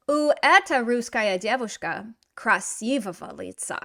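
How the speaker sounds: imitating the student's halting Russian; student's mistake. Teacher quoting the student's wrong answer, lightly anglicized. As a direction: read out his wrong answer, a touch anglicized. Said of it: "He says".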